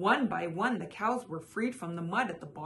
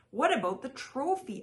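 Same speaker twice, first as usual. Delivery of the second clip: calling out; 6 semitones higher, 3 dB louder than usual. A narrator's reading. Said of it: "a third person called out".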